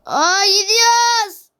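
long, drawn-out cry of going off; slow, elongated whoop; excited exclamation. Real, not acted. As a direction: stretch every vowel as you take off. Game ride suddenly takes off.

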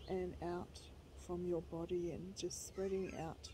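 gentle, even meditation voice; guided meditation. Real, not acted. Leading viewers through a short guided meditation, calm guiding voice. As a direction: guide them calmly, pausing between phrases.

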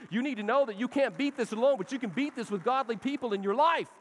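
loud, high exhortation; preaching. Acted. Pastor urges a struggling man to fight, loud preaching. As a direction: drive the point home with force.

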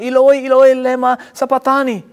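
Jesus. Retold or imitated. Preacher voicing Jesus crying in his mother tongue, loud cry. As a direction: cry out the Aramaic, retold by a preacher. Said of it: "He cried out in his mother tongue".

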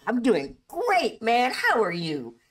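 high, loud impersonator voice; a singer. Retold or imitated. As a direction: imitate a pop-star impersonator, stretched out and high. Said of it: "He's like".

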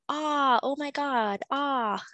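a light hammed-up "ah" of surprise; mock surprise. Shown as a demonstration. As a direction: gasp as if amazed, half-joking. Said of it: "this is like an ah sound".

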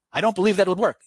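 the angry skeptic pushing back; irate skeptic. Retold or imitated. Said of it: "He's irate".

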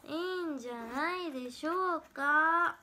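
slow, drawn-out mimicked line; slow mimicry take. Shown as a demonstration. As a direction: stretch it out, in imitation. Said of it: "モノマネは勝手にやってるだけだよ". (ゆっくり伸ばしたモノマネ口調)

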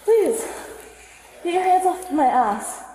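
high, slow, shouted begging; desperate pleading. Real, not acted. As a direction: beg loudly through distress. Woman begging officers to stop.

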